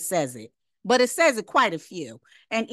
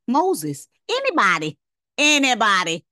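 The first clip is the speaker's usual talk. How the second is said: calling out loudly to the room, a bit louder each time; 6 dB louder than usual. Real, not acted. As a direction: call out, waiting for an answer. Preacher calling out to congregation.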